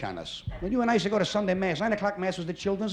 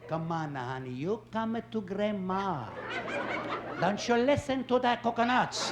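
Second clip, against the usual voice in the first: coaxing grandma; 2 semitones lower, 4 dB quieter than usual. Retold or imitated. Grandmother luring the grandkid away, mock sweet coaxing. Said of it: "your mother does this one".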